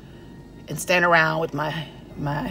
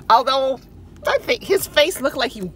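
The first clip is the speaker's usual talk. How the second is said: ordinary talk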